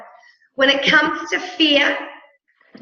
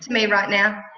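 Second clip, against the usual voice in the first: slow, musing and curious; calm, curious reframe; slower than usual. Shown as a demonstration. Coach demonstrating a calm, curious reframe to a client. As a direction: turn the complaint into slow curiosity. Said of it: "a simple reframe".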